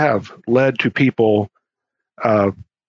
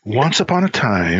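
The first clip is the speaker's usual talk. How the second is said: storytime voice. Pretend. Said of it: "put on our story time voices".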